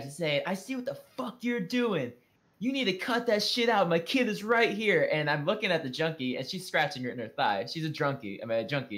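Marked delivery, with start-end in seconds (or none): 0.4-5.1 put-on, pitched-up shouting. Retelling a passenger shouting at a junkie: imitating someone shouting. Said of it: "Culber is shouting at her".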